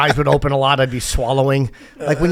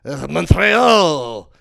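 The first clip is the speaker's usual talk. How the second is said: mock Canadian accent; 5 dB louder, much slower than usual. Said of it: "do it again in another country".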